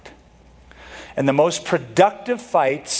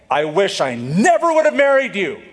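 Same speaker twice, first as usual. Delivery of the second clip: higher-pitched marital jab, leaning on never; mild mock outburst; 5 semitones higher than usual. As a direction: throw it like a hurtful quarrel line. Acted hurtful marital quarrel line.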